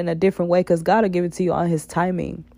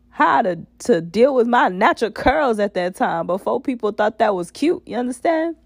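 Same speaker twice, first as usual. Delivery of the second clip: hoarse, raspy throat; 3 semitones higher than usual. Real, not acted. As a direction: talk through a rough raspy voice. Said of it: "excuse my raspy voice".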